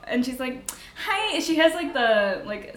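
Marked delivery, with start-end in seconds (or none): 1.1-1.4 a hint of a Minnesota accent on Hi, higher. Driver Maria greeting them in a Minnesota accent. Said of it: "South Dakota accent".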